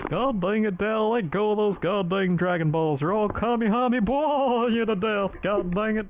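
high, loud twangy scolding; Texan accent. Pretend. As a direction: scold Dale like a hammed-up Texas neighbour. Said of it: "one accent I can do really well".

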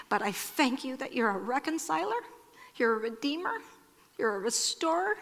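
soft prayer with lifted line endings; earnest prayer. Real, not acted. Pastor praying for standing estranged women, earnest prayer. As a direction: pray tenderly, pausing between the titles for God.

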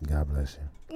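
spooky ghost voice. Retold or imitated. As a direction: call out like an unseen ghost. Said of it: "that's the actual voice".

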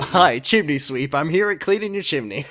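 lightly voiced odd-job man introducing himself; the speaker impersonating someone.

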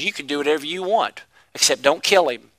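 low and soft, a quiet God speaking; hushed voice of God. Acted. Preacher voicing God quietly to Satan.

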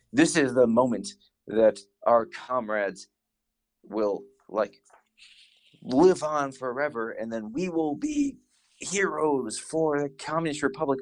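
lightly acted rousing speech, pitch climbing. Guy rallies his comrades in the first episode, mock rousing speech. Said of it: "this rousing speech".

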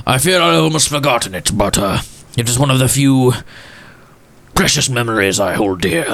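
a hint of a polite, wistful old gentleman; old gentleman Walsworth.

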